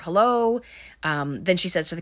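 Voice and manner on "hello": imitated call into the dark, a little raised; mock calling out. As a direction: call out a tentative hello, retold lightly. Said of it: "we hear Heather calling out".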